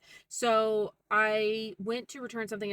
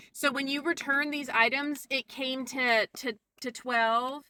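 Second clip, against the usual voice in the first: higher mock explanation slowing at the end; condescending checking; 4 semitones higher, slower than usual. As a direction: imitate someone spelling it out, drawn-out final question. Mimics Mel explaining condescendingly.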